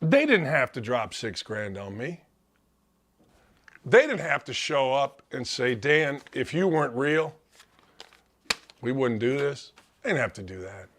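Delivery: fighting back real tears, voice sinking at the end. Real, not acted. Radio host thanking the friends who paid, crying for real. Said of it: "I'm crying".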